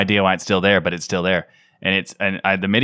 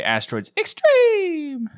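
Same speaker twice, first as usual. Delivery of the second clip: dramatic announcer voice; much slower than usual. Pretend. Dramatic title voice.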